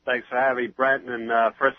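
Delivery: stuffy nose from a head cold. Real, not acted. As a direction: speak through a head cold. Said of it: "head cold flu bug that I picked up".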